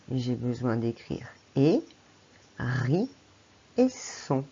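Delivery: hé, ri, son, one by one; hérisson broken into three syllables; syllables spelled out. Shown as a demonstration. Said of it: "trois syllabes".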